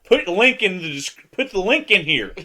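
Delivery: loud, high excited babble; bursting with excitement. Real, not acted. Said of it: "out of sheer excitement".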